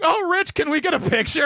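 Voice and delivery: high, gushing fanboy voice. Retold or imitated. Comics pretending to be fanboys asking Rich for a picture, high and gushing. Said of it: "we acted like fanboys".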